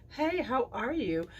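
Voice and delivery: high, slow ladylike greeting; genteel greeting. Shown as a demonstration. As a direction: greet like a lady at a tea party. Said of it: "gets a little higher pitch".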